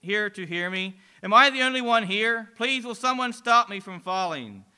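falling man calling into the void, shouting; shouting into darkness. Acted. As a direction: cry out, searching for anyone. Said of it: "Again the man shouts into the darkness".

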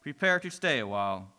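low quiet menacing demon. Acted. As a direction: greet him low and sinister. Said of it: "the voice of a demon replies".

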